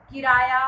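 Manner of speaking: किराया with a loud, punched कि; stress on first syllable. Shown as a demonstration. Teacher showing pupils word stress, stressed first syllable. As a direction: lean hard on the कि of किराया. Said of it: "किराया में क पर".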